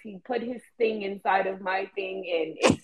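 lightly imitated childish storytelling; mock a naive kid recounting it; childish retelling, dragging out the ending.

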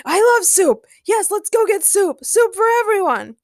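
high, loud, giddy excitement; gleeful, squealed enthusiasm; uncontainable joy. A narrator's reading. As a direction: burst out with childlike delight. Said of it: "couldn't contain his joy".

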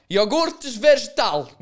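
high, loud comic proclamation; mock triumphant announcement. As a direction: proclaim the silly phrase with glee. Repeats the running joke gleefully.

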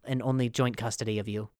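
a hint of an exhausted parent; tired mom. Mom home from work brushing off kid, weary and soft. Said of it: "I'm like".

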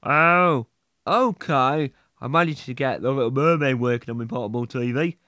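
croaky morning voice; just woke up, rough voice. Acted. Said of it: "Jeff, y-, y-, your voice".

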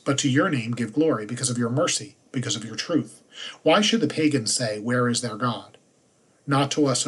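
measured liturgical reading voice; solemn lectern reading; scripture reading. Acted. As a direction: read the lesson to the congregation, clear and steady. Psalm verses with refrain.

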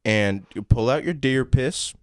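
Southern father teaching his son; Southern accent. Acted. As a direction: instruct like a country dad with a Southern accent. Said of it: "Southern accents?".

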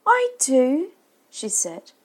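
eager mother. A narrator's reading. Mother answers her unwanted child.

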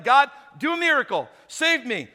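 a hint of desperate Hail Mary; pleading prayer. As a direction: beg God for rescue, mildly hammed up. Acts man praying on flooded roof.

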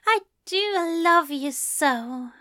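high-voiced, sighed declaration of love; fond sigh. A narrator's reading. Angel to his lover, fondly sighing. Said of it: "he sighs".

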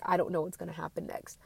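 quietly fretting, gripping tight; tense worry about what's next; anxious. Retold or imitated. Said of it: "I start clenching those handles 'cause I'm like".

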